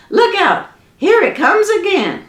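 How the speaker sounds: high, loud alarmed call; high frantic old woman warning. Acted. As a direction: yell it out in a panic.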